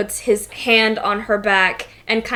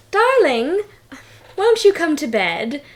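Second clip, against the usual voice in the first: higher, sugary false charm; feigned sweetness; 5 semitones higher than usual. Acted. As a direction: coo it to lure the Duke.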